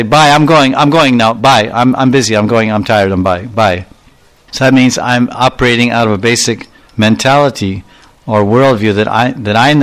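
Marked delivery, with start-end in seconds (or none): 0.0-3.8 mock hasty goodbye. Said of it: "In the West, we just say".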